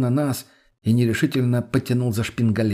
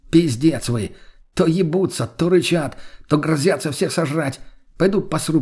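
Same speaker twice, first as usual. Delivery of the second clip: exasperated complaint; 5 semitones higher than usual. Acted. Indignant friend lists their antics.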